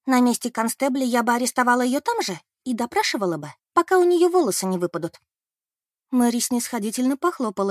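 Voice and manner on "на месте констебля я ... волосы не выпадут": rising high and loud; heated rant. Acted. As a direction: get carried away. Beth rants. (горячо, громко, всё выше)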